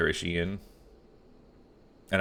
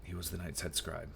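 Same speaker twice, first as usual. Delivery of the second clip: put-on old palace guard; 5 dB quieter than usual. Voices game NPC guard.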